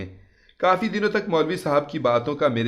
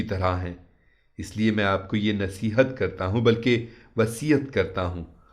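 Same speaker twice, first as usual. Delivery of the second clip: maulvi's calm words; 3 semitones lower than usual. Retold or imitated. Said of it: "बोले".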